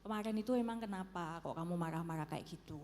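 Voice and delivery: lightly acted gentle question to a spouse; calm, kindly asking. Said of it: "kita bicara baik-baik".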